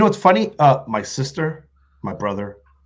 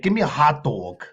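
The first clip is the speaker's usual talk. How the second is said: mimicking a Yonkers accent; 3 dB quieter than usual. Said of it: "that's how they say it".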